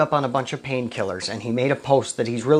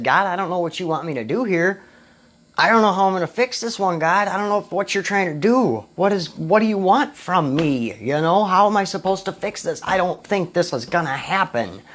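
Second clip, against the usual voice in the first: higher-pitched, mildly pleading retelling; exasperated plea to God; 5 semitones higher than usual. Retold or imitated. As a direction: recount begging God for answers. Acted past plea to God.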